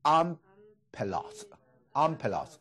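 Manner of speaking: ampelos said slowly twice, each syllable clear; slow Greek drill. Shown as a demonstration. Teacher introducing a new Greek word, slow and clear. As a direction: model ampelos carefully for the class. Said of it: "耶稣说他就是这个葡萄树啊".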